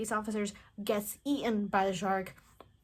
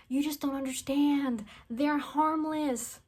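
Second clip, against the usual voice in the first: high, slow dreamy insistence; mock naive Mika; 5 semitones higher, slower than usual. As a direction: stay serene and sure.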